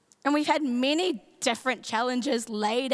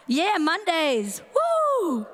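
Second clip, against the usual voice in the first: high, drawn-out mock whoop; stretched-out, hammed-up cheering; 4 semitones higher, much slower than usual. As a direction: cheer for Mondays with put-on enthusiasm.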